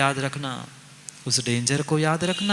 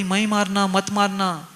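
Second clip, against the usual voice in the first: Draupadi crying out; 2 semitones higher than usual. Acted. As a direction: plead like a grieving mother. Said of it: "Draupadi चिल्ला पड़ी".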